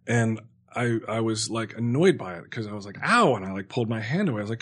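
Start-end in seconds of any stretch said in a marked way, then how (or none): 3.0-3.3 quick, higher and louder ow; mock pained yelp. Patient reacting to a twisted IV, mock pained yelp. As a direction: re-enact a sudden sting. Retelling yanking hand from twisted IV.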